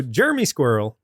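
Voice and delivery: Texan "Jeremy", squeezed to JUR-mee; Texan accent. Real, not acted. Podcaster teased for the Texan accent, Texan "Jeremy". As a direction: say "Jeremy" in two syllables, Texan style. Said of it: "your Texan accent is great".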